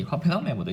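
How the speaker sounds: "화폐성 메모드" to a beat; rhythmic recitation. Shown as a demonstration. Teacher showing students the mnemonic's beat, rhythmically. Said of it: "이 리듬을 좀 타면 됩니다".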